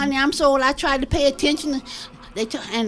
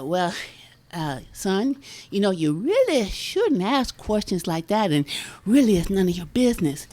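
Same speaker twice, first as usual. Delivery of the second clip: lowered scolding granny voice; 6 semitones lower than usual. Retold or imitated. Grandmother scolds boy in joke.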